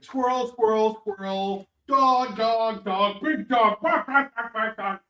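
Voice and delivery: high-pitched, playful dog chatter; excited dog voice. Acted. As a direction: yap like a dog spotting prey. Voicing an easily distracted dreaming dog.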